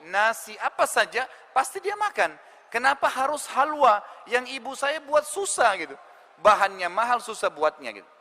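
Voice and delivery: aggrieved but restrained; mildly exasperated son. Acted. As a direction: complain with pent-up annoyance, still respectful. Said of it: "dia dalam kondisi mangkel".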